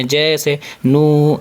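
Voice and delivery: نو very slowly, with the و held; stretched long u. Shown as a demonstration. Teacher stretching the long و for children. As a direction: draw out the و in نو. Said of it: "واو مدہ کو تھوڑا کھینچے".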